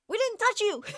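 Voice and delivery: high, loud protest; loud, high-pitched, hammed-up exasperation; exasperated mock yell. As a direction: cry out in comic disbelief at a false accusation. Exasperated reply to startled dog.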